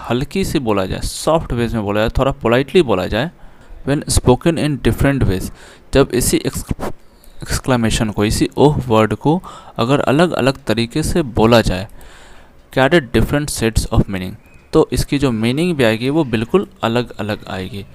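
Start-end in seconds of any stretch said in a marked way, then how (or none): 3.9-5.5 slow, careful reading aloud of the English line; slow text reading. Shown as a demonstration. Reads English text aloud slowly. 12.8-14.3 slow, careful reading aloud of the English line; slow text reading. Shown as a demonstration. Reads English text aloud slowly.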